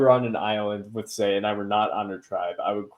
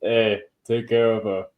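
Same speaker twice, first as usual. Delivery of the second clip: a bit more Boston; Boston accent. Retold or imitated. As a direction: lean harder into Boston. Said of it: "That's a little better".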